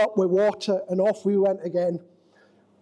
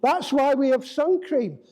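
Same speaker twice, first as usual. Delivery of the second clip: lightly voiced Australian brother; a hint of an Australian twang on sun cream; Australian accent; 2 semitones higher than usual. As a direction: say it the Australian way, matter-of-fact. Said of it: "in an Australian voice".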